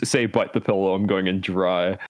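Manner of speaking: RFK voice. Retold or imitated. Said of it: "saying in the R F K voice".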